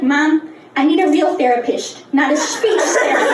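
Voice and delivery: put-on lisping kid's plea, "therapist" as "therapisht"; slushy s in "therapist" and "speech"; childhood lisp. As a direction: protest to mom with "speech" slurred to "shpeech". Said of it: "'cause I had a lisp".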